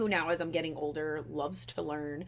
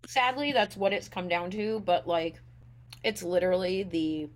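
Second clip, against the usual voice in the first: chewing while talking; 4 dB louder than usual. Real, not acted. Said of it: "I'm also eating breakfast at the same time".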